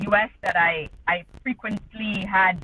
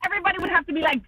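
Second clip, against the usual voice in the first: pitched up to people nearby; instructing aside; 7 semitones higher, faster than usual. Real, not acted. Telling those in the car nobody can talk, calling aside.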